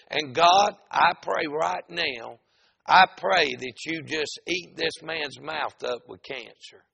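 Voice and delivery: loud, emphatic prayer over hollering; retold prayer. Preacher praying against the hollering man, retold prayer. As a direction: call down judgement in prayer. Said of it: "while I was praying".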